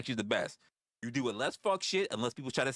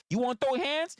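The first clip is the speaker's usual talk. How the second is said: mock challenge; 9 semitones higher, 5 dB louder than usual. Challenging the young riders.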